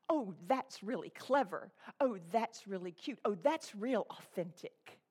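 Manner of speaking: mocking gushing voice. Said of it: "That's a buzzword".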